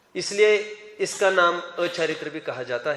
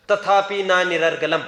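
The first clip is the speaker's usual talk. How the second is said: slow, louder intoned quotation of the verse; Sanskrit recitation; 7 dB louder than usual. Shown as a demonstration. Teacher quoting the scripture to his students, intoned loudly. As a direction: declaim the scripture line slowly. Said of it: "कौन बोल रहा है ये?".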